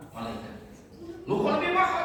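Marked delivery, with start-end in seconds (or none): 1.3-2.0 high, loud startled question; shocked angel. Acted. Angel shocked at Indonesian's price, high startled cry.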